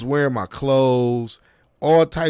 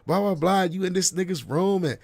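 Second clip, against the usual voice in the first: higher mock rant trailing into blahs; retold nagging rant; imitated going off; 5 semitones higher than usual. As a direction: sketch her tirade without raising volume. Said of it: "She going off on this nigga".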